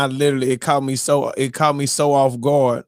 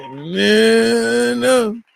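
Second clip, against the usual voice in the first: high repeated no; protest; 8 semitones higher than usual. Retold or imitated. Still reacting to the twist, high protesting no. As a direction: keep protesting.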